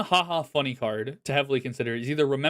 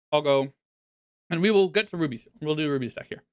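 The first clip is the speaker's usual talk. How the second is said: speaking with food in mouth; mouth full. Real, not acted. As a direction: talk through a mouthful. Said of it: "Sorry, I have food in my mouth".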